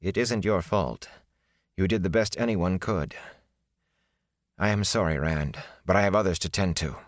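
a touch of gentle comfort. Acted. Wisdom comforting Rand, understated gentle tone. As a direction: soften it for the grieving boy. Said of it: "she said gently".

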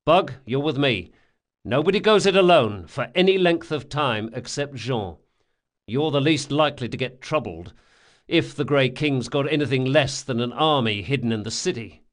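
brisk, lightly voiced ringleader; a touch of a commanding schemer; gang leader giving orders. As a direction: lay out the plan, lightly in command. Locke gives orders.

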